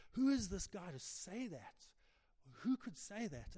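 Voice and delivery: mildly acted indignation; indignant anger. Pharisees questioning who Jesus is, mildly indignant. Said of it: "indignation and anger".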